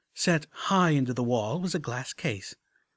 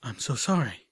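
trembling. Acted. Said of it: "my voice trembling".

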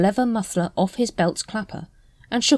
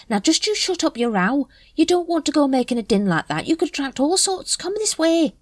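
Nobby character voice; 11 semitones higher than usual. A narrator's reading. Nobby hushes Carrot.

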